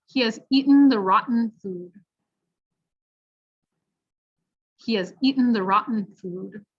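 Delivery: "shorten" and "curtain" with throat-stopped T; careful teaching read; glottal T sentence. Shown as a demonstration. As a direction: model sentence with swallowed T. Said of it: "repeat after at home".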